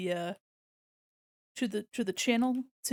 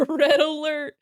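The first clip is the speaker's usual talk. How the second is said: mock alarm; 4 semitones higher, 9 dB louder, slower than usual. Real, not acted. Shrimp swarm food stick.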